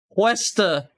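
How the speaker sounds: Wester said as two syllables, "WES-ter"; pronunciation attempt. Shown as a demonstration. Streamer guessing again, Wester as short "wes-ter". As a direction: shrink the word to just Wester, "WES-ter". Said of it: "I don't know how to pronounce it".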